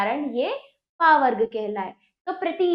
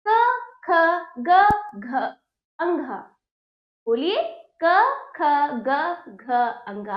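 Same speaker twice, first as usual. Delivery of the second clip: loud recitation; slower than usual. Shown as a demonstration. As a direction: call out each letter strongly. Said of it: "आप इसका उच्चारण जोर जोर से करेंगे". (ज़ोर ज़ोर से वर्ण बोलिए)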